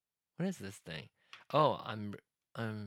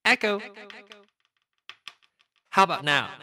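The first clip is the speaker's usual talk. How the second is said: digital echo; 8 semitones higher, 9 dB louder than usual. Real, not acted. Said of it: "this is echo".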